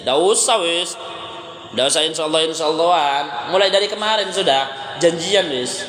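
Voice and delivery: dismissive seller. Retold or imitated. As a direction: wave the advice away, mildly annoyed. Seller brushes off the reminder. (menepis nasihat dengan agak kesal)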